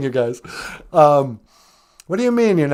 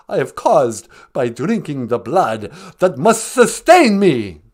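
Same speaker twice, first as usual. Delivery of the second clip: Count Von Count. Acted. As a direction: ham up the counting vampire, rolling "ah, ah". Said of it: "the Count".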